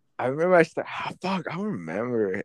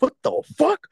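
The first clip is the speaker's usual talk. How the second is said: much higher, louder incredulous yelp; mock outraged surprise; 4 dB louder than usual. A boy swings at him at lunch, mock shocked yelp. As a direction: throw it up in shock. Retold moment fight started.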